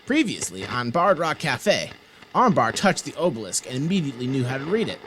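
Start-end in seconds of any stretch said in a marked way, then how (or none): 0.0-1.9 announcer voice. A narrator's reading. Recap intro, announcer read.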